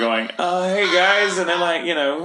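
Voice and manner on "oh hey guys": hammed-up Irish accent, high and bright; mock Irish pub greeting. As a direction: put on a cheesy over-the-top Irish lilt. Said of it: "horribly over-the-top Irish accent".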